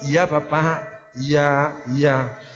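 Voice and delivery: soft, low, yielding yes sir; gentle polite yes. Shown as a demonstration. Staff calmly agreeing with an angry customer, soft and humble. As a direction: agree softly and humbly to calm him down. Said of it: "pakai positive word".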